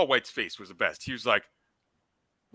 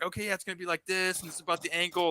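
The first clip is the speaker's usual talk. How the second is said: retold player quote; 7 semitones higher, 4 dB quieter, faster than usual. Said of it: "he's like".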